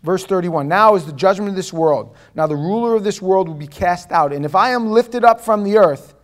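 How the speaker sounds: loud, declamatory Bible reading; emphatic scripture reading. Real, not acted. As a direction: proclaim the verse to a congregation. Reads scripture aloud with force.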